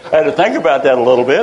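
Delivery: real amused laughter; laughing. Real, not acted. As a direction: still laughing while talking. Laughing at grandson's joke.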